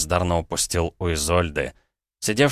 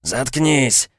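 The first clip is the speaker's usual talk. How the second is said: higher, louder irritated snap; 6 semitones higher, 3 dB louder than usual. Acted. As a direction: gunman snapping at the sobbing hostage. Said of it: "раздражённо встряхнул её бандит".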